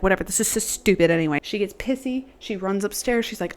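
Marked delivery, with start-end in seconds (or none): 0.0-1.4 bratty dismissal. Retold or imitated.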